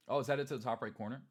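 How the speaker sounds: fast, loud faux-surprised question; mock discovery. Showing viewers the trend, with fake surprise. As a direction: play dumb, amazed at the obvious. Mock naive chart reading.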